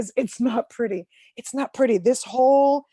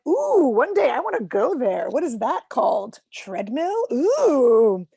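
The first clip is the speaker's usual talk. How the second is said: dreamy wonder; 2 semitones higher, 6 dB louder than usual. Retold or imitated. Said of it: "I'm like".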